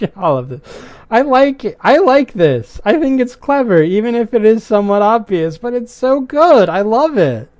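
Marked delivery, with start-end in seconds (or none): 1.1-7.5 higher, louder, gushing praise; excited. Real, not acted. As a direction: rave about the twist, high and bright. Gushing about the twist.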